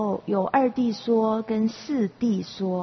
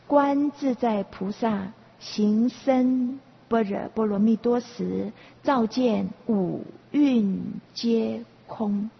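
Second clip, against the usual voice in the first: slow, measured sutra intoning; sutra recitation; slower than usual. Acted. Teacher quotes the Heart Sutra in slow recitation.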